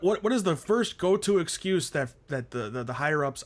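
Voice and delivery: talking through hiccups; words broken by hiccups. Real, not acted. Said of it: "I'm sorry, I'm hiccuping a lot".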